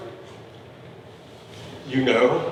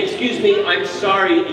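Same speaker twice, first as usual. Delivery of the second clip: insincere apology; 4 semitones higher, 3 dB louder, slower than usual. Shown as a demonstration. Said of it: "So let's try that".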